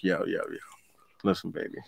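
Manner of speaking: hushed coaxing whisper, barely voiced; whispered brush-off. Whispering to his upset friend to calm him down. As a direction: breathe it out to smooth things over.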